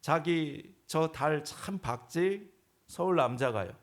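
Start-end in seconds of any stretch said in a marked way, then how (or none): 0.0-2.5 slow, dreamy question; lightly voiced romantic wife; sweet Seoul wife. Pastor mimics a Seoul wife admiring the moon, slow and sweet. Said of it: "서울 아내가".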